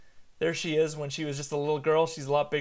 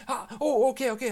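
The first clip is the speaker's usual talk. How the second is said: higher-pitched flustered dad; acted startled reaction; 7 semitones higher, 4 dB louder, faster than usual. Dad as his daughter starts freaking out again, startled. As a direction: jolt into hurried reassurance.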